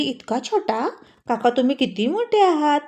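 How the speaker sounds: a lightly voiced little girl, asking. Little girl asking uncle who the boy is, lightly childlike.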